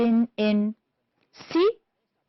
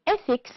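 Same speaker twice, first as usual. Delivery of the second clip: ethics with its first syllable stressed; 6 semitones higher than usual. Shown as a demonstration. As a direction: lean on the start of ethics. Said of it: "it's the first syllable".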